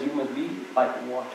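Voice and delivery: put-on half-hearted try at his Chinese accent; Bruce Lee accent attempt. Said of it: "I can't do his accent".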